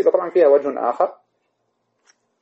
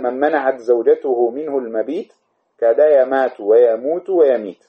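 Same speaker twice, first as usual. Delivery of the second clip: verse recitation. Shown as a demonstration. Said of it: "قال".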